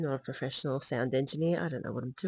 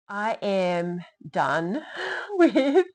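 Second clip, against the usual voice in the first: "I am done" drawn out slowly and louder; stress on done; 4 semitones higher, 6 dB louder, much slower than usual. Real, not acted. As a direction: lean hard on "done". Emphatic declaration, laughing.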